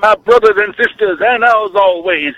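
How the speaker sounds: a touch of a revival preacher call; lightly voiced preacher, rising; Reverend Wolfman. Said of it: "This is the Reverend Wolf Man".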